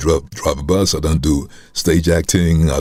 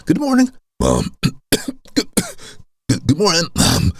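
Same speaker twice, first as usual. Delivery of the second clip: put-on breaking teenage voice; slower than usual. Boy greeting mom as his voice breaks, cracking voice. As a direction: crack and drop mid-greeting, imitating puberty. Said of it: "my voice was going up and down".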